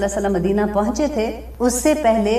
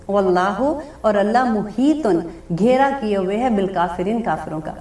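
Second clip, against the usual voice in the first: slow, measured phrases with deliberate pauses; teacher's phrase-by-phrase translation cadence; word-by-word scripture recitation; slower than usual. Acted. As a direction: recite each phrase, then translate it slowly.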